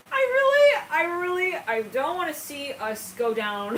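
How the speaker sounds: slow, over-the-top melodrama; dramatic Titanic plea. Acted. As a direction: overact the plea from the sinking ship. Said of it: "specifically in that way".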